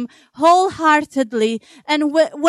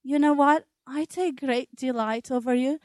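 gentle, hushed voice of a loving God; voice of God, tender; 2 semitones lower, 5 dB quieter than usual. Acted. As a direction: say it softly, as God comforting a worried mother. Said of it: "you hear the voice of God saying".

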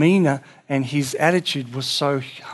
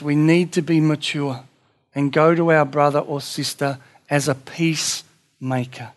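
ordinary delivery

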